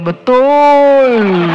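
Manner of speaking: congregant's mock shout, half laughing; shouted agreement. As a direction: call out Betul from the pews. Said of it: "ada ibu yang berteriak".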